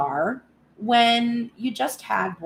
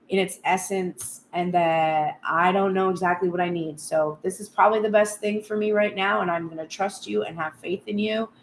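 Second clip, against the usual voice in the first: calm, conversational talk with God; trusting prayer. Acted. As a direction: pray with settled faith, no begging. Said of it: "That's the type of prayer you should be doing".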